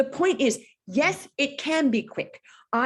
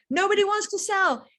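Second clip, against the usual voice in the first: emphatic repeat; 8 semitones higher than usual. Real, not acted. Repeated with more punch.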